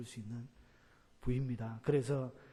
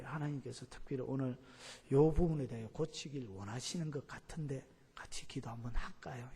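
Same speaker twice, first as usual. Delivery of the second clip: polite gentle offer. Shown as a demonstration. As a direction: ask kindly, almost in a whisper. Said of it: "이렇게 정중하게 이렇게 말을 해야 합니다".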